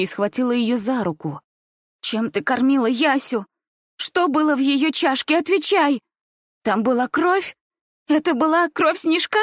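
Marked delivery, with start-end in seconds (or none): 2.0-9.4 accusing demand. Acted. Gulya interrogating grandmother about the blood, frantic and accusing. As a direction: hurl the questions at her, frantic.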